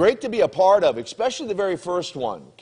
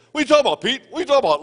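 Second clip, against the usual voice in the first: high-pitched mock bafflement, keeping up the act; feigned ignorance; 9 semitones higher, 3 dB louder, much faster than usual. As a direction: imitate someone playing dumb, voice jumping high. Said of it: "Barry's kayfabe".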